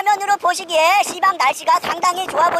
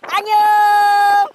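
long, loud, stretched goodbye; drawn-out shout; 4 dB louder, much slower than usual. Real, not acted. Farewell to viewers.

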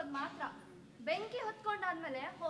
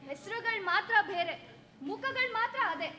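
bitter outburst; 3 semitones higher, 5 dB louder than usual. Acted.

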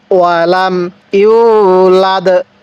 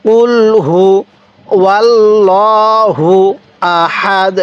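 word by word, drawn out; slow recitation; much slower than usual. Shown as a demonstration. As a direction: recite slowly for learners to repeat. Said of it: "আরেকবার পড়ুন".

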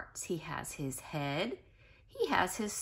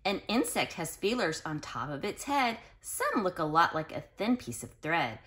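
put-on reading to children. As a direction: read it out to the class with bounce. Reads book aloud to class.

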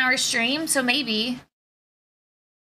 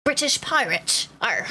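slow British pirate with a growly Arr. Shown as a demonstration. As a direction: put on a British pirate accent. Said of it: "What's a British pirate sound like?".

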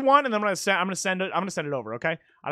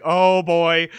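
low, loud, drawn-out mock dread; imitated dread; 4 semitones lower, 6 dB louder than usual. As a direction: re-enact your own nervous muttering, but bigger. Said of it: "That's why I was just like".

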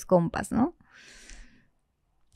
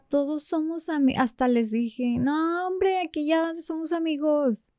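overly friendly, higher, playing it cool; forced casual; 4 semitones higher than usual. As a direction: pretend everything is fine. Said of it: "agarré mood de". (falsamente relajada, más aguda)

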